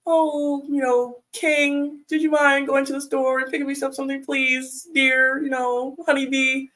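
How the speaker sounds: sugary wife. Retold or imitated. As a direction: coax him with honeyed pet names. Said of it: "And I said".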